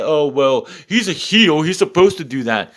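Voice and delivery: imitating a fan brushing it off; mocking excuse. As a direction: parrot a lame excuse dismissively. Mocks fans' excuse for him.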